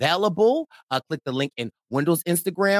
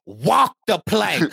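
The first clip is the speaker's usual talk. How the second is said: sick pirate voice; slower than usual. Pretend. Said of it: "You sound like a sick pirate".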